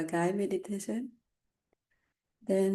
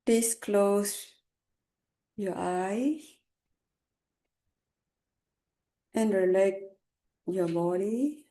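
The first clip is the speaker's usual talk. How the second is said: calm unhurried meditation guidance; guided meditation. Acted. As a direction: lead them gently with long pauses. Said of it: "I will start Togai meditation".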